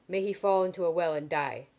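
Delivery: a fierce, loud toast of a curse; sudden fierceness. A narrator's reading. Woman toasting her enemy's downfall, fierce and loud. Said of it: "she said with sudden fierceness".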